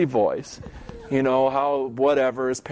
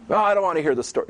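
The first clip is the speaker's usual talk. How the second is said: impatient dismissal; 3 semitones higher, much faster than usual. Retold or imitated. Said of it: "They just gotta have the facts".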